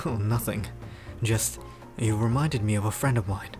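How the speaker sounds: low, easygoing reply; deep and soft, with small pauses; deep-voiced Pierce. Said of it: "how deep the guy's voice is".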